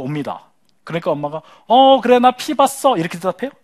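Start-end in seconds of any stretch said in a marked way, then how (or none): 1.7-3.0 literal mom. Acted. Mother's flat literal reply.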